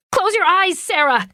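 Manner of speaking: high, urgent shout; shouting mother. A narrator's reading. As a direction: shout it, panicked. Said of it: "she shouted again".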